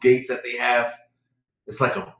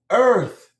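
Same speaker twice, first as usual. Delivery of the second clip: high answer; 10 semitones higher, 5 dB louder than usual. Retold or imitated. Man answers intercom voice.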